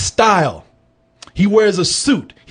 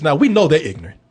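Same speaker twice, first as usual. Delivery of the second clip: normal talking voice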